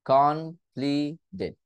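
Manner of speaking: কমপ্লিটেড slowly with a d; slow flapped t. Shown as a demonstration. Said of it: "ডিটাকে আবার নিয়ে আসতে পারতেছি".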